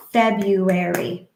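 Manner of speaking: February in four slow even beats, FEB-RU-AR-Y; slow syllable-tapped word. Shown as a demonstration. Therapist counting beats in February, slow and rhythmic. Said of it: "How many beats is that?".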